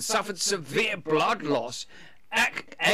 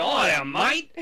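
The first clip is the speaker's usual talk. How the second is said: hammed-up British accent gone Australian; bad British accent; 3 dB louder, slower than usual. Mocking Americans attempting British, bad British accent. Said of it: "they go do British".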